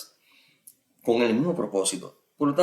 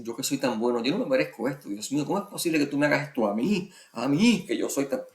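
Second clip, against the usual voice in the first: playing the little saint; 4 semitones higher than usual. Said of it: "la de santito".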